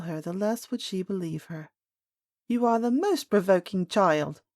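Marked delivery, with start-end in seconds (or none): 2.5-4.4 loud, exasperated nurse outburst; angry nurse crying out at the princess; provoked cry. A narrator's reading. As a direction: lash out at the provoking child. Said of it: "cried her nurse".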